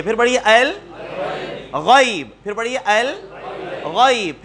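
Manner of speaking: slow al-ghayb, throaty gh; الغیب with fatha on ghain. Shown as a demonstration. Teacher models word for student, slow. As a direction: drag out الغیب, ghain with zabar. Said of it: "غین کے اوپر زبر کے ساتھ پڑھیے".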